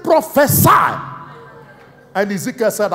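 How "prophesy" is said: high, loud commanding call; voice of God. Retold or imitated. Preacher voicing God's command to Ezekiel. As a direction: boom the command from above.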